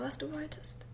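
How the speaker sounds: sehr leise, tonlos geflüstert; fast verstummend. Acted. Kind erinnert sich an Missbrauch. (Kind zum Vater, tonlos geflüstert)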